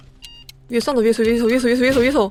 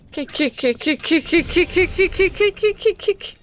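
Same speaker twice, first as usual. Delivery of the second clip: unhinged villain cackle; 5 semitones higher, much slower than usual. Real, not acted. Gleeful cackle during fight.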